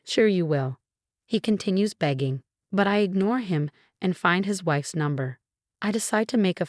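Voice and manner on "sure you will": sarcastic. Retold or imitated. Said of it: "I reply sarcastically".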